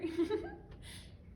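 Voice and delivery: high put-on giggle; fake polite giggle. Performing the taught giggle for a man, forced. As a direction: laugh on cue, not meaning it. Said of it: "my perfected ... giggle".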